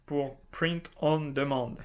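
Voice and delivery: print on demand in a self-mocking English accent, a touch slow. Shown as a demonstration. YouTuber jokes about his English accent while defining print on demand, mock English accent. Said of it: "avec mon super accent anglais".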